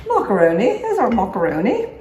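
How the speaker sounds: lightly put-on Julia Child cooking-show voice. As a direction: playfully imitate a TV cook's lilt, rising at the end. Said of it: "Who is that lady I sound like".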